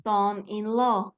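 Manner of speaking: Son-in-law stretched word by word; slow pronunciation model. Shown as a demonstration. Teacher repeating the student's answer, slow careful model. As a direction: say Son-in-law slowly, each part distinct. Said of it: "la pronunciación porque es muy sencilla".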